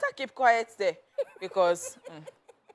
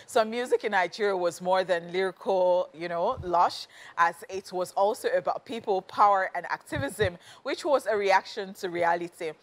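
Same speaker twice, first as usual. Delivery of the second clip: news read. Acted. Reads the segment intro.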